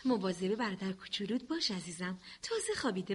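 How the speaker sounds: put-on soft and low so the baby keeps sleeping; quiet low hush near a sleeping baby. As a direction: murmur it gently, hushed. Baby asleep, mother speaks softly.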